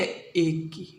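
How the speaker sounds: "एक की" said low and soft, dropped away; soft answer. Shown as a demonstration. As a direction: answer "एक की" quietly, almost to himself. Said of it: "दूसरे स्थान पे बिंदी काय की लगती है?".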